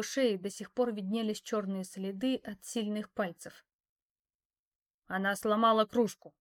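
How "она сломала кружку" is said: a touch of an angry growl, a bit louder; mildly angry snap. A narrator's reading. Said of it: "рыкнул хозяин". (лёгкое рычание)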